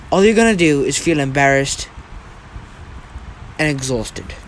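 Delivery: lecturing a rival with wide pitch swings; condescending Deku. Acted. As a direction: talk down to a disappointing opponent. Voices Deku taunting a rival.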